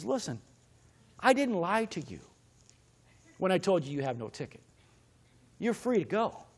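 quiet, restrained exasperation with pauses between phrases; exasperated. Acted. Officer telling the driver there is no ticket, mildly exasperated. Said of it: "he's exasperated with you".

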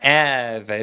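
"have" said as a drawn-out "av"; dropped H. Shown as a demonstration. Teacher showing the weak H, left silent. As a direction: start "have" straight on the vowel, no H. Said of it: "H는 소리가 별로 안 나잖아요".

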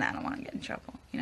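fast secretive whisper. Real, not acted. Worried about spoilers, confiding.

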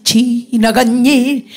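지나간 일 slow, long then short; long-short rhythm. Shown as a demonstration. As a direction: hold 지나간, clip 일. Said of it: "길고 짧게".

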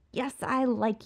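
high, cocky villain voice; Riddler voice. Acted. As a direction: play the smug showman. Riddler's delighted rant.

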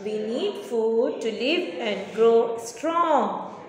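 slow, clear model answer; dictation pace. Shown as a demonstration. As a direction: say it slowly for pupils to copy. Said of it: "You have to say".

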